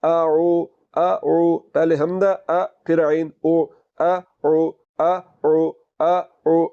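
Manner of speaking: throat letters demo; hamza then ain. Shown as a demonstration. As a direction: separate hamza आ and ain ओ clearly. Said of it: "कैसे पढ़ना है?".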